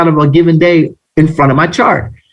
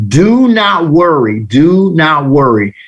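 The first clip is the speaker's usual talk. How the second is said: slow, deliberate reassurance; reassuring; slower than usual. Real, not acted. Coach telling new students not to worry, reassuring. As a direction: spell out the comfort slowly, word by word.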